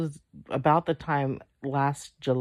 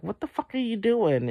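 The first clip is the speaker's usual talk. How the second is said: retold angry yell; 8 semitones higher than usual. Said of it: "I started raising my voice".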